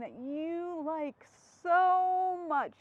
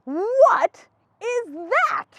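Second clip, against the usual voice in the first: lightly voiced disgusted elephant, slow and whiny; Gerald voice; 8 semitones higher, 13 dB louder, much slower than usual. Gerald recoiling from Piggy's slop, mildly disgusted whine. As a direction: drag it out, a touch grossed out.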